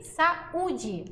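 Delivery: "saúde" as sa-Ú-de, full stressed U; hiato pronunciado. Shown as a demonstration. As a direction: separate A and U in "saúde". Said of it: "mesma coisa". ("saúde" com U tônico e separado)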